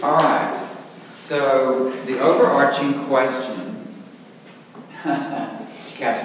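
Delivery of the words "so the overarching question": "overarching" stretched slow and loud, a teacher's cue; teacher emphasis. Shown as a demonstration. Teacher announcing the big question to his class, slow and emphatic. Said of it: "that's a teacher thing".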